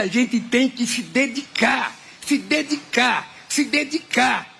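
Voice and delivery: slow, each "se dedicar" hammered with a falling tune; emphatic repetition. Real, not acted. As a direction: drive home "se dedicar" slowly, three times. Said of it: "repeats for emphasis".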